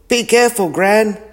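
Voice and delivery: high, loud call after her. Acted. Dad calling after Gran as she runs, loud. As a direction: shout a warning across the fair. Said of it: "called Dad".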